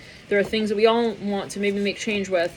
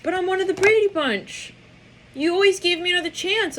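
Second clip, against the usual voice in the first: much higher put-on singsong voice; Brady Bunch voice; 11 semitones higher than usual. Quoting the Brady Bunch to viewers, high singsong. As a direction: lift way up into a sitcom singsong. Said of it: "I'm hearing Brady Bunch".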